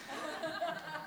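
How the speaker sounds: quiet, high-pitched giggle; short soft high laugh; small laugh. Real, not acted. Speaker admitting he has no PowerPoint, small laugh. Joking he has nothing prepared.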